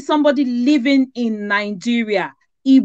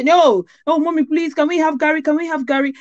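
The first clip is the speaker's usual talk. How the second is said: imitated pleading; 4 semitones higher than usual. Children pleading with mother, retold.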